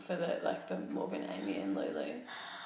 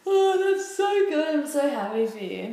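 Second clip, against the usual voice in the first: over-the-top delighted; excited; 8 semitones higher, 7 dB louder than usual. Acted. Exaggerated praise for bulking.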